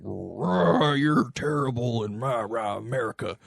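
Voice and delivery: hint of a ranting TV host, opening on a growly rah; Hannity. Guest retelling a TV host berating his guest, mock bluster. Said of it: "That's a good Hannity impression".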